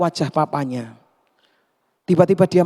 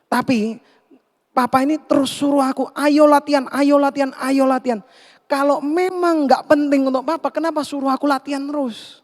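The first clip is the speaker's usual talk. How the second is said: upset complaint; 8 semitones higher than usual. Acted. Son complains to his father.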